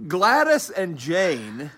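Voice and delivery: measured bedtime-story reading; story narration. A narrator's reading. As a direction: read it out to children, drawing out the names. Reads story aloud.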